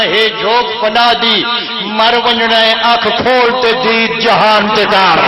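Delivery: measured, slow recitation of verse; chanted majlis verse; poetry recital. Acted. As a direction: recite the rubai to the gathering. Recites a Saraiki rubai.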